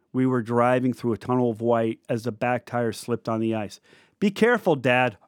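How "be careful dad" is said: nervous warning. Retold or imitated. Car slipping on icy road.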